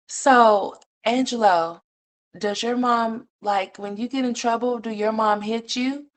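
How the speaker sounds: high, sweet questioning voice; mock caseworker. Caseworker gently questioning the little boy, high and sweet. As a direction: play a gentle social worker quizzing a child.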